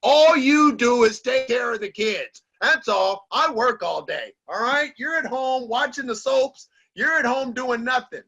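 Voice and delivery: a hint of a gruff caveman husband scolding; lightly mocking his old macho self. Husband lecturing his wife about housework, mildly gruff. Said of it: "I used to say things like, I was a caveman".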